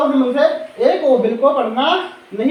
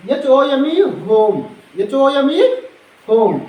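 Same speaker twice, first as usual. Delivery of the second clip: slow spelling; 4 dB louder, slower than usual. Shown as a demonstration. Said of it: "और इसी प्रकार से".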